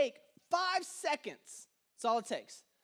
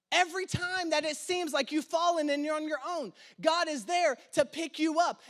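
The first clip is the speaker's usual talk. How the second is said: raised, rhythmic preaching refrain; 3 semitones higher than usual. Acted. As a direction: drive the refrain home to the church. Preaching build to congregation.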